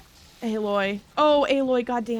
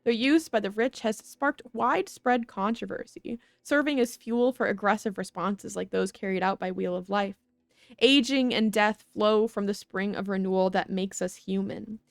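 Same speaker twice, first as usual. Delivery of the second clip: news read. Acted. Reads in-game news report aloud.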